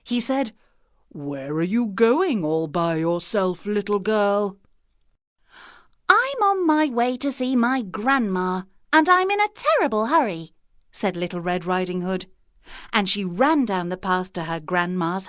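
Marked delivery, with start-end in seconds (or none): 1.1-4.6 lightly voiced wolf, slow and falsely friendly; a hint of a sly wolf luring the girl; the wolf greets the girl, mock friendly. A narrator's reading. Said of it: "in his most friendly voice". 6.1-10.5 put-on high, bright little girl in a rush; a child in a terrible hurry, louder and higher; the girl tells the wolf she must hurry, high and eager; hurried little girl. A narrator's reading.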